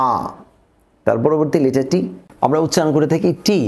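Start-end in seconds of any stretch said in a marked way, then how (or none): 0.1-0.1 আ said as an open a, no r; আ, open a only; letter name R. Shown as a demonstration. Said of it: "আ উচ্চারণ করতে হবে". (আ, র ছাড়া)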